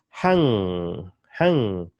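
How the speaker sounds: "Hang" with the final ng held on; drawn-out hanging ng. Shown as a demonstration. Teacher showing the English ng, held at the end. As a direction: let the end of "Hang" hum through the nose. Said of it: "How do you pronounce this word".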